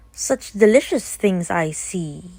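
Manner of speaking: slow, lightly sly wolf voice; sneaky wolf. Acted. Wolf eyeing the basket, slow and sly. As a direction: savour the words like a sneaky wolf. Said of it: "he smiled sneakily".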